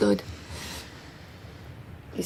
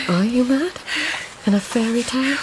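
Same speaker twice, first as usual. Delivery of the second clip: incredulous; 6 semitones higher than usual. Acted. Incredulous questions in dream.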